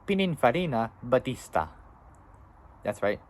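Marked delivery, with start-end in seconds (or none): 0.1-1.7 Pininfarina Battista in an Italian accent, rolled and sung out. Shown as a demonstration. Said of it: "I'll do it in Italian accent".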